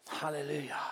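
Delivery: breathy unvoiced hallelujah under the breath; whispered hallelujah. Real, not acted. Preacher whispering praise between sermon points. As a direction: murmur it to yourself, almost silent.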